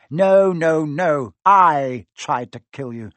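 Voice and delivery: loud, forceful villainous denial; loud boast, slowing at the end; emphatic correction. Acted. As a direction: hammer out each word, gloating.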